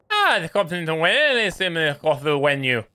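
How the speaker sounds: badly faked Welsh accent; lilting mock-Welsh with swooping pitch; attempted Welsh. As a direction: have a poor go at Welsh. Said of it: "See, I can speak Welsh".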